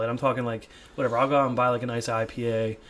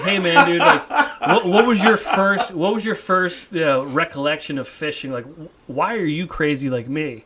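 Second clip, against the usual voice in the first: louder, higher, laughing through a loose buddy question; casual buddy interviewer; 4 semitones higher, 6 dB louder, slower than usual. Pretend. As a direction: play the excited fishing pal, half laughing. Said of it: "It's like".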